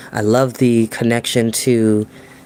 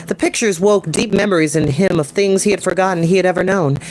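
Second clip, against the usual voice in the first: bright, higher storytelling voice; story narration; 5 semitones higher than usual. Acted. Narrator reading the grail chapter to viewers, storytelling. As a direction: read it to an audience, vivid and even. Reads novel aloud.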